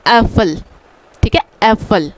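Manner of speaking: एप्पल said with an e vowel and f, efel; German word with umlaut. Shown as a demonstration. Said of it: "जिसको हम क्या pronounce करेंगे". (German शब्द "एप्पल" उमलाउट के साथ)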